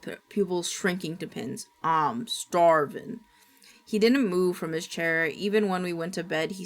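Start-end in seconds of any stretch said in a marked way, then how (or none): 1.8-3.2 growled. Acted. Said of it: "Grandpa growled".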